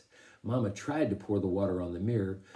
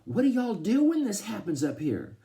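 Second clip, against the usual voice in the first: worried Southern; 11 semitones higher, 3 dB louder than usual. A narrator's reading. Mama asks Dad what to do, worried Southern accent. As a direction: fret in a raised Southern voice. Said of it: "started talking Southern style when she got worried".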